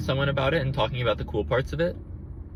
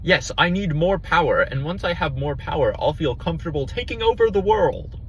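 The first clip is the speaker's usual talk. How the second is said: generic villain voice; 4 semitones higher than usual. Retold or imitated. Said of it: "kind of just be like".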